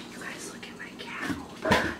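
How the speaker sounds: whispered so the cat isn't disturbed. Real, not acted. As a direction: hush your voice to a whisper. Cat nearby, not to disturb.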